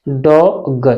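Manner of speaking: डॉग split into डॉ and ग; sounded out. Shown as a demonstration. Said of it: "इसे हम पढ़ेंगे डॉग". (डॉ... ग, तोड़कर बोलें)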